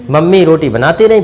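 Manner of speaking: usual speaking voice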